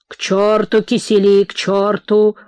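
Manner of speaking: put-on mildly angry drunken host; impatient dismissal. Host rejecting his wife's dessert, mildly angry. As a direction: wave it away impatiently.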